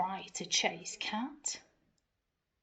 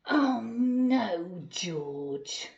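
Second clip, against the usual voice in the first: dismayed wail; 8 dB louder, much slower than usual. Acted. Narrator dismayed at mess.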